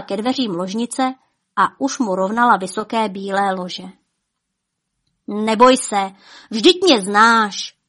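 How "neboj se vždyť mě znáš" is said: comforting. Acted. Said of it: "těšil ji orlík král".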